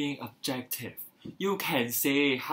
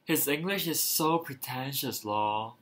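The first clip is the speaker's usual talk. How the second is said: sneering; 2 semitones lower, slower than usual. Retold or imitated. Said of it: "They say things like".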